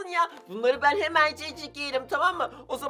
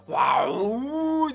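spooky ghost noise. Retold or imitated. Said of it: "diye sesler falan duyarsanız".

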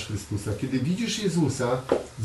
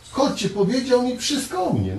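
high, louder eager call; excited call; 10 semitones higher, 3 dB louder than usual. Acted. Samaritan woman quoted. (wysoko, głośniej, z zapałem woła wioskę)

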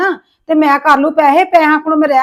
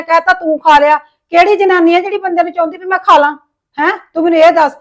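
indignant complaint. Acted. Widow angrily complains to brother-in-law.

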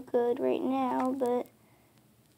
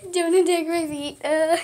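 louder, higher yelp at a pet; exasperated scolding; 4 semitones higher, 6 dB louder than usual. Real, not acted. Owner to cat attacking her feet, exasperated scolding. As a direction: raise your voice in real protest.

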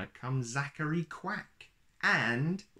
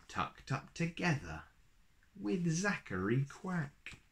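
put-on lilting read-aloud rhythm for a children's picture book; storybook reading. A narrator's reading. Uncle reading a rhyming book to little kids, lilting storyteller voice. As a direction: read it like a bedtime story, bouncy verse.

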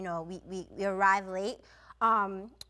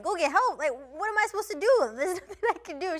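incredulous retort; 7 semitones higher, 4 dB louder than usual. Retold or imitated. Exasperated retort to seatmate.

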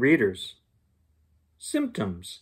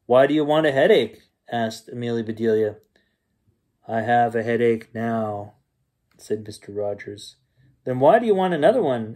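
lively bedtime story reading; story narration. A narrator's reading. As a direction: read it like a bedtime story to kids. Reads bedtime story aloud.

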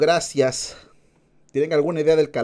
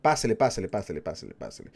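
singsong market price calls; much faster than usual. Pretend. Market vendor calling customers.

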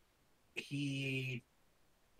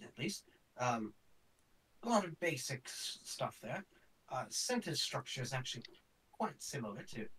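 put-on old professor voice. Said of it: "hands it to you and says".

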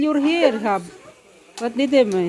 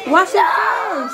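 laughing; 6 semitones higher, slower than usual. Real, not acted. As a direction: laugh while calling out. Laughing at messy face.

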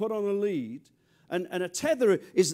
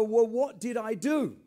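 innocent husband; 5 semitones higher, 3 dB louder, slower than usual. Retold or imitated. Husband voiced in comic story.

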